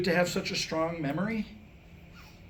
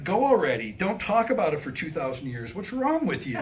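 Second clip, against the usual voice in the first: exasperated retort; 4 dB louder than usual. Retold or imitated. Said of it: "The rest of it would be like".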